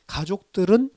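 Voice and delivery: usual speaking voice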